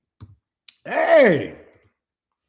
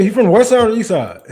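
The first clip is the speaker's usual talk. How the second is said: fast, loud question through a laugh; teasing a viewer, laughing; 6 dB louder, faster than usual. Real, not acted. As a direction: ask it while cracking up. Laughing question about boyfriend.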